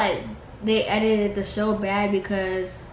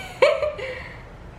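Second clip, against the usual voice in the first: laugh. Real, not acted. Laughs after saying sorry.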